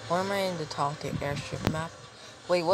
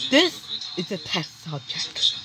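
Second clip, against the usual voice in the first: character voice. Acted. Other character voice, slowed.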